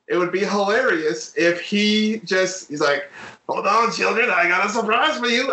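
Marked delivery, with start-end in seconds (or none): 3.5-5.5 slightly raised, clumsy mock-Cajun accent; bad Cajun accent. Joker voices creepy owner to children, in a bad Cajun accent. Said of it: "I don't know why he's Cajun".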